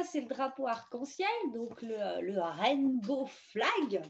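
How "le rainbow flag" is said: French-accented English. Shown as a demonstration. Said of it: "Ouais, j'ai un super accent".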